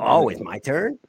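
mock-innocent surprise in a friend's voice; a hint of the tentmate's voice; Alan Jenkins voice. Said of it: "he talked like this".

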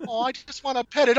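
put-on squeaky, delighted baby talk; high cooing voice. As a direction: coo at it like a pet. Imitating a player reaching for it.

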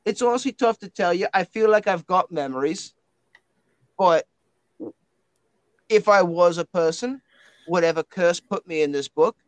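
put-on matey talking book with an Australian-style accent; Winston the blokey spirit book. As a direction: puzzle over lost memories as a blokey book.

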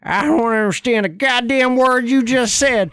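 hammed-up angry redneck. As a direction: bark at the alien in a rage. Angry redneck yells at alien.

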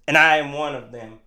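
lightly put-on defiant heartland rebel, starting loud; mock sovereign citizen. Joking host claiming to be one of the sovereign citizens, mock defiant. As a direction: slip into a hammed-up sovereign citizen declaration. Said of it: "I know those sovereign citizens".

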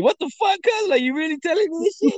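retold disbelief. Retelling his reaction to his friend's advice, high and stunned. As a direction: replay your own shock. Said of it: "I'm like".

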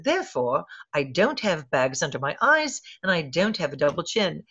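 lightly imitated British accent; a touch of measured British speech; Julie Andrews. Actress justifying her pillow to interviewer, light British accent. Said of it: "in her little British accent".

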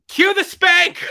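high, loud command; mock shout. Director calling to crew, hammed-up shout. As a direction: bark it across the set.

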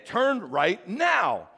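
drawn-out robotic command; slow GPS command. Retold or imitated. GPS repeating itself to the driver, slow and insistent. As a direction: spell it out slowly like a nagging GPS. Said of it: "it tells you again".

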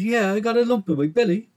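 lightly voiced high-pitched mam; mother's reply. A narrator's reading.

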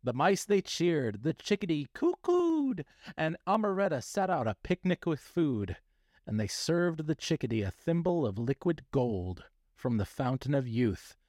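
theatrical storybook narration; hammy stage actor. A narrator's reading. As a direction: read it like a grand stage actor.

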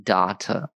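"Data" with a long ah, copied from an Australian; imitated Australian pronunciation. American trying out the Australian's word, "Data" with a long ah. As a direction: echo "Data" as DAH-ta.

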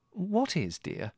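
high, mild motherly question; puzzled mother. A narrator's reading. Mother questioning her ranting son, mildly puzzled.

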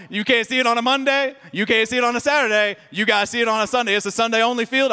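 mock the silly excuse; sarcastic mockery. Real, not acted. Pastor mocking a church member's excuse, sarcastic.

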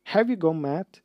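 bellowing. Acted. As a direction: bellow it at her. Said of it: "Ron bellowed".

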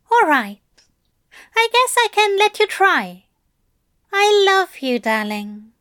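high, loud Aziraphale, smiling through tears; tearful smiling Aziraphale. Acted. Aziraphale tearfully accepts Crowley's vow, high and loud. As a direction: pitch up, sniffly but smiling. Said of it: "Aziraphale sniffled and wiped his cheek, smiling".

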